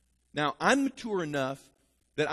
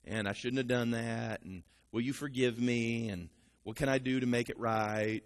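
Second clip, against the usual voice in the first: apologetic husband; 5 semitones lower than usual. Retold or imitated. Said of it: "And he says".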